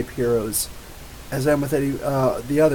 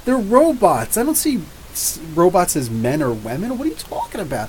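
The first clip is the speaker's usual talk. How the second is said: incredulous; 4 semitones higher than usual. Retold or imitated. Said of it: "I was like".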